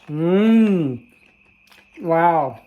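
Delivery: loud delighted mmm and wow. Real, not acted. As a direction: relish the first bite out loud. Tasting the corn.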